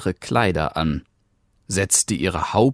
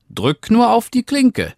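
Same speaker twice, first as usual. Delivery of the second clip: put-on high, louder call of a frail old woman; grandmother calling out; 5 dB louder than usual. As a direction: call weakly from the bed. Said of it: "rief die Großmutter". (hohe, lautere Stimme der schwachen Großmutter, die aus dem Bett ruft)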